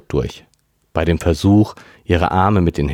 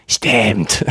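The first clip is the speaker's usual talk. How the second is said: croaky voice; 4 semitones higher than usual. A narrator's reading. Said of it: "krächzte Karen".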